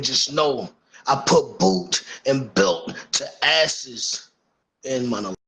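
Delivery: wrestling promo. Pretend. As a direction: cut a heel promo, taking your time. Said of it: "does the dog want his legacy to be".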